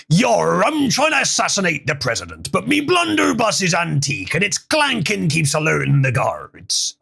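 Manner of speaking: gruff hammy pirate, lightly done. Acted. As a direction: growl it out like an old sea dog. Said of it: "And I get a pirate voice".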